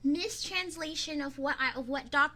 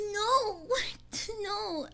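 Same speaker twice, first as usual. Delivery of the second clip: high pleading no; 7 semitones higher, 3 dB louder than usual. Real, not acted.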